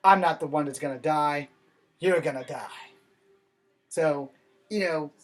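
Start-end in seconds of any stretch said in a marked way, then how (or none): 0.0-2.9 dubbed kung fu. Retold or imitated. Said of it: "the other guy goes".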